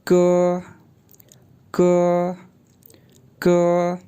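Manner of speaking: क said as an unaspirated k with a short vowel; क, last one almost whispered; क like the Mandarin syllable ge; pinyin ge. Shown as a demonstration. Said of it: "तो यूँ pronounce होगा जी".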